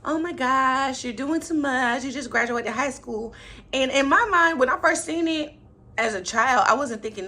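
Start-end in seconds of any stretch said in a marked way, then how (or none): 0.0-3.3 flirty. Retold or imitated. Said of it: "this little flirty moment".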